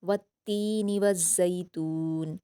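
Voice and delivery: slow, careful Quranic reading; slow recited verse; tajweed recitation. Shown as a demonstration. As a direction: draw the verse out slowly. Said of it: "पहली आयत है".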